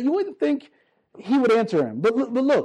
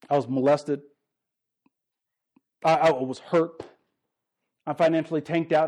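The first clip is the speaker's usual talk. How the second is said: lower, heavy confession to God; lowered, pained confession; 5 semitones lower than usual. Retold or imitated. Preacher voicing a hurting believer telling God they're angry, lower and heavy. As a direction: voice someone's hurt and anger at God, subdued. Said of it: "Some of you need to say".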